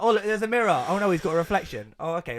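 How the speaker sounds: high, hammed-up gasp of discovery; mock fake surprise. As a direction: overplay the kids' fake shock at the mirror. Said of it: "it's like".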